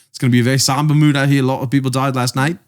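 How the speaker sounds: understated Australian imitation; Australian accent. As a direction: retell it in a loose Australian accent. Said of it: "I don't know how to do an Australian accent".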